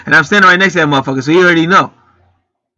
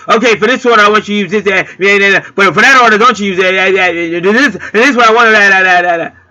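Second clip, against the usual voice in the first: hammed-up picky shopper; mimicking fussy customer; 4 semitones higher than usual. Mock a customer rattling off a fussy order, high and insistent. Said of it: "everything he's saying crazy".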